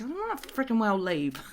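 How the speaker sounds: mildly cranky retold refusal; angry dad. Dad refusing to leave his life, mildly angry. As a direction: imitate a stubborn dad digging in. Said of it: "he's getting really angry with me".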